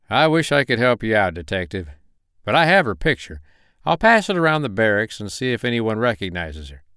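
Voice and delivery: polite Carolina investigator on phone; friendly investigator voice. Acted. Malone on phone.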